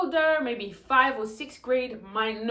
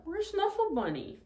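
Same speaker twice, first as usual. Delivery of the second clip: mom voice; 9 semitones higher, 4 dB quieter than usual. Shown as a demonstration. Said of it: "here's Mom".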